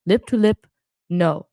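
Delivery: imitating a European accent, chopped into short pieces; Victor's accent. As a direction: lightly mimic a choppy Spanish or Italian accent. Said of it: "the way his accent is reminding".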